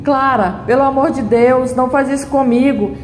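mild begging. Acted. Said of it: "Henrico fica implorando".

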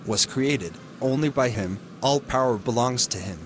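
steady, earnest sermon delivery; radio preaching. Acted. Preacher on the radio urging listeners, earnest sermon voice. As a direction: preach good news to the listeners.

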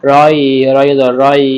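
রয় stretched slowly; drawn-out syllable. Shown as a demonstration. Teacher spelling out রয় for students, slowly. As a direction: draw out রয়. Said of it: "এক আলিফ টেনে ফি".

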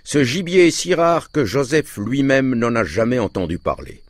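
pleased, proven-right tone; satisfied exclamation. A narrator's reading. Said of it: "s'écria-t-il d'un ton satisfait".

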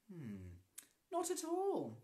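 wicked smile. Acted. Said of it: "smiling wickedly to herself".

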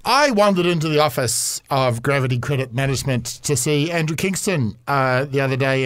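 casual storytelling ad read. Acted. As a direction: sell it like a chatty radio ad. Reads an ad read.

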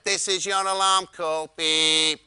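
robotic alarm voice; Dalek voice. Retold or imitated. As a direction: bleep it like a robot. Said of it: "It's like a Dalek".

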